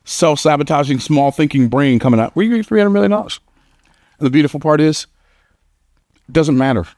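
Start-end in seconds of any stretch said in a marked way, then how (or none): 2.3-3.4 very high, fast squeaky doubting voice; little squeaky voice. Retold or imitated. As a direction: squeak it out like a small scared brain. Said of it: "little squeaky voice".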